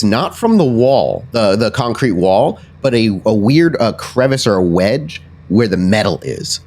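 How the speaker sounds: measured, emphatic action description; walk the player through each step deliberately; game master narration. Acted. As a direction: descriptive tabletop storytelling.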